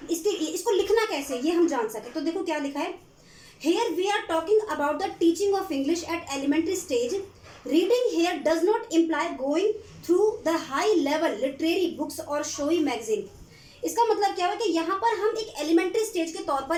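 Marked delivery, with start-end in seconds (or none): 3.7-13.2 reads English slowly, word by word, for notes; slow dictation. Acted. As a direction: spell it out slowly so students can write. (धीमी आवाज़ में लिखवाना)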